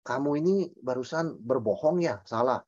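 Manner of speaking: a hint of a scolding priest; mock legalistic preacher. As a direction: lightly mimic a petty rule-giver handing out penance. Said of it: "Mantra itu begini".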